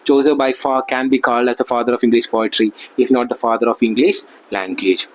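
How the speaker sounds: reading each word out very slowly, like dictation; slow textbook reading. Acted. Teacher dictating notes to students, very slowly. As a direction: read the notes out for the class to copy. Reads English text aloud slowly.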